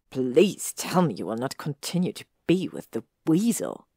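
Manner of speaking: hissed displeasure. Acted. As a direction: let the disgust seep through. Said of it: "Draco hissed displeasure".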